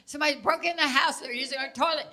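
frantic high calls to wake her husband; panicked yelling. Retold or imitated. Wife in the dark begging husband to wake up, panicked yell. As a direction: shout in terror at an intruder. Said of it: "And I'm saying".

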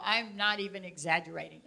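ordinary delivery

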